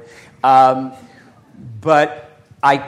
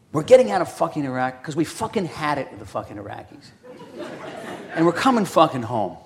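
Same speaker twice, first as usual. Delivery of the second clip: crude swearing aide. Retold or imitated. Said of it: "Why am I talking like this?".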